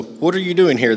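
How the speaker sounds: high, loud soldier's challenge; shouted demand. Acted. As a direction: bark the question at the congregation. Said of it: "they shouted".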